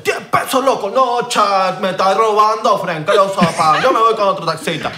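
mock outrage. Acted haggling with Panama taxi driver.

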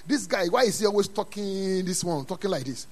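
drawn-out, soft complaint; draggy mock complaint under the voice; mock grumbling listener. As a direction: imitate a weary listener's grumble.

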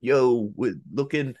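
put-on slow, tentative try at a Boston accent; hesitant attempt at a movie-star Boston voice; Leo DiCaprio attempt. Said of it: "I can't do a Leo voice".

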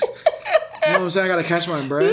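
chuckling through the words; laughing. Real, not acted. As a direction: grin and laugh it out. Laughing at his own joke.

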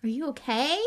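urgent. A narrator's reading. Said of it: "Harry asked urgently".

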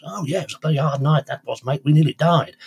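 a light Australian twang, cheerful; a hint of a breezy Australian bloke; Norman's Australian accent. Teller lightly voicing the Australian chap recalling the wreck in an Australian accent. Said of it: "a bit of a loquacious Australian chap called Norman".

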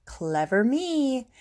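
lightly voiced gloating to oneself; muttering to herself. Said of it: "and muttered".

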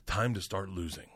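soft, polite warning. Retold or imitated. Igor quietly warning the narrator at night's end, soft. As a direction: murmur it discreetly. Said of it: "looks at me very politely".

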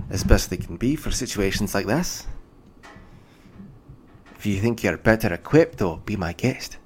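be my guest, with mild tired sarcasm; lightly voiced dwarf official. Dwarf official challenging the party to help, mildly exasperated.

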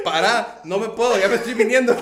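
high, loud mock panic; mock woman's cry. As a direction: squeal it like she's panicking. (grito fingido de pánico)

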